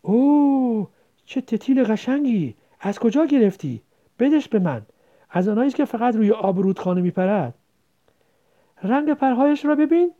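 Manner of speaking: put-on boy amazed by his sister's catch; surprised. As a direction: marvel at the dragonfly. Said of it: "متعجب به سنجاقک خیره شده گفت".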